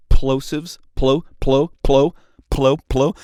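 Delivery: hard p in "plosives", popping the p; punched plosives. Shown as a demonstration. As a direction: spit the p of "plo" into the mic. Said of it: "nervous with my plosives".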